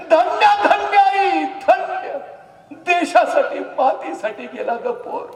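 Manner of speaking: high, loud emotional praise; loud, high tearful salute; emotional exclamation. Acted. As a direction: cry out your praise of her. Mother's grief, Raje's praise.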